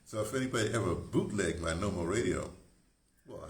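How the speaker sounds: ordinary delivery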